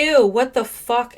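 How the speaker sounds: loud, high, drawn-out revulsion; real disgust. Real, not acted. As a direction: recoil out loud, slowly. Disgusted by crude revelation.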